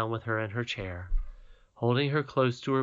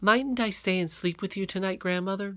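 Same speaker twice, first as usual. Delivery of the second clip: put-on higher, pleading young princess; pleading little girl; 9 semitones higher than usual. Irene begs grandmother.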